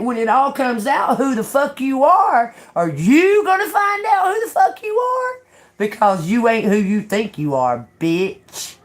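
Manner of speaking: reliving the fight, shouting at the neighbour; retold angry shout. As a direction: tell her off, building to a scream. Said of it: "I said".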